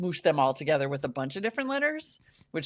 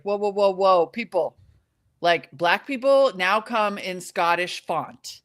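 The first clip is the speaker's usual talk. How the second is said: louder, higher, incredulous retelling; mock astonishment; 4 semitones higher, 5 dB louder, slower than usual. Retelling an American's reaction to Scottish accents, mock astonished. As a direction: stretch it out in hammy disbelief.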